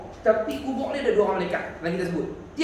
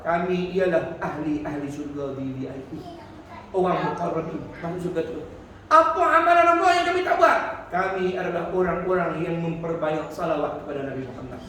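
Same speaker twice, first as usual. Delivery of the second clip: lower, calm reply of the flyers; calm proud answer; 5 semitones lower than usual. Retold or imitated. Blessed souls answering those below, calm and low. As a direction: answer serenely from above. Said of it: "terbang pun jawab".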